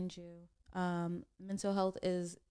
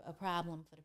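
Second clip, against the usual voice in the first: whispered; 4 semitones lower, 6 dB quieter, faster than usual. Real, not acted. Hyping up the guest.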